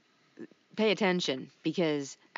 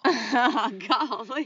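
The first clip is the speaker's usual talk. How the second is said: laughing mock Gomer Pyle golly; a laughing nod to a folksy Southern hick; 7 semitones higher, 6 dB louder than usual. Joking about North Carolina stereotypes, mock Gomer Pyle. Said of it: "like Gomer Pyle".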